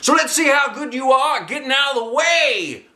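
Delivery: gleeful about the test; eager coach. Acted. Teacher starting ball machine.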